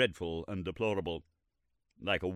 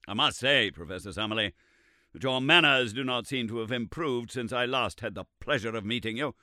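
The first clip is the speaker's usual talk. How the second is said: severely; 4 semitones higher, 5 dB louder than usual. Acted. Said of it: "said Lord John severely".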